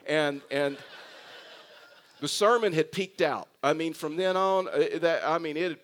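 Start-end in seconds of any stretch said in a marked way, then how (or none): 2.2-3.5 laughing. Real, not acted. Laughing at his flopped joke.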